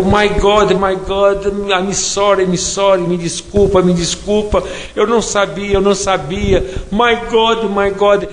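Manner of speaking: staged desperate pleading near tears; acted panic. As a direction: beg like a terrified man caught out. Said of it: "E fiz aquela encenação ... como se fosse apavorado".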